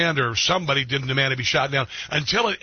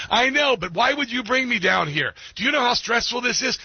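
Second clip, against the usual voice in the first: much higher, whiny, put-upon GPS lady; mock stressed GPS voice; 8 semitones higher than usual. GPS complains to driver about route, hammed-up whine. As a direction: pitch it up and complain like a nagging navigator. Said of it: "That was what my G P S was saying to me".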